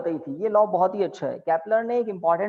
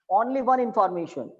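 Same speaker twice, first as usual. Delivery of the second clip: dictating; much slower than usual. Shown as a demonstration. Dictating key point.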